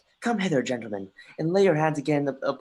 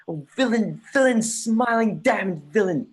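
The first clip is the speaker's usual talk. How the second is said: higher, louder, slow furious cry; raging outburst; 8 semitones higher, 6 dB louder than usual. Acted. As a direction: spit out the rage at the uncle. Hamlet rages at his uncle.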